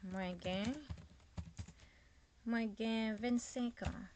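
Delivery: Mwen gen vennsenk an said slowly, vennsenk stressed and falling; model Creole answer. Shown as a demonstration. Teacher models the Creole answer for the students, slow and careful. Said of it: "the person answer".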